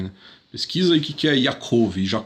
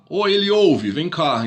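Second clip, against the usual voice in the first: calling someone by name; 4 semitones higher than usual. Retold or imitated. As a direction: shout across the room for a friend. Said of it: "Olha o nome do cara". (chamando alguém em voz alta)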